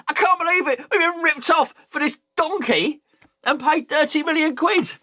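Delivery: high-pitched, indignant fan complaint; mock outraged fan. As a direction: imitate a supporter moaning about being ripped off.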